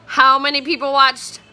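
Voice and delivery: high, slow, gushing fan voice; excited. Real, not acted. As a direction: squeal it like a superfan.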